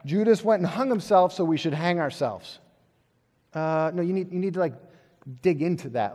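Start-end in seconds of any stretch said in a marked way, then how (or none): 0.0-2.6 mock literal reading. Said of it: "not just go".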